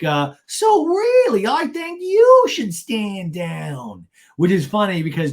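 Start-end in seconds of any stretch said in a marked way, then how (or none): 0.5-4.1 very high, loud, drawn-out mock scolding; whiny hammed-up impression, stretching the words; Gina. Gina telling Shannon to stand down, mock indignant. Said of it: "And Gina's like".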